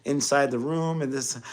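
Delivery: an actor blown away by the jokes; high, amazed outburst from a fellow actor; excited disbelief. Retold or imitated. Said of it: "in character".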